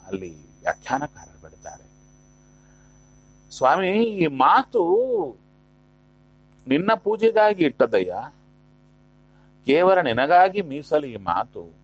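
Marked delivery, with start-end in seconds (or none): 3.5-11.7 voiced prayer of apology to the Lord; acted prayer. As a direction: plead with God as a praying devotee. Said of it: "ಅಂತ ಪ್ರಾರ್ಥನೆ ಮಾಡಿಕೊಂಡು".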